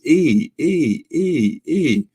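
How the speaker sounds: short high squeaky "E" chirps, read out like a little bird; chirpy bird squeaks. Retold or imitated. Reading a chat message aloud as mock bird chirps. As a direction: peep each "E" like a chirping bird. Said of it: "you sound like a bird".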